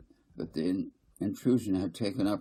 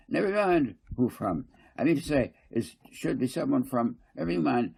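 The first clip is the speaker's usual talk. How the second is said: higher, louder, insistent council speaker; fussy councillor Garth; 5 semitones higher, 4 dB louder than usual. Acted. Garth lecturing the council, higher and insistent. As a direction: press the point, repeating I mean to say.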